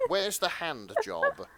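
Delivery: slow, precise, every word enunciated; crisp enunciation. Retold or imitated. Retelling Edwin asking for a spare part, slow and crisp. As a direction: say it like naming a machine part. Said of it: "enunciated the word as if it was the name of some spare part".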